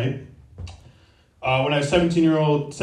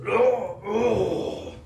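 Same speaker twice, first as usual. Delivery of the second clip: imitated drunken groan; 7 semitones higher, 4 dB quieter than usual. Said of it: "rails through this sliding door and just goes".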